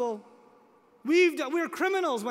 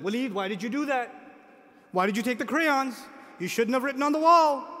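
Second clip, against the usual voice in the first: mild mock yell; 4 dB louder than usual. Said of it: "And I'm yelling at him".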